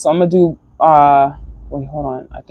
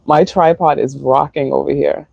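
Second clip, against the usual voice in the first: wind in the face. Real, not acted. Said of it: "It's so windy out here".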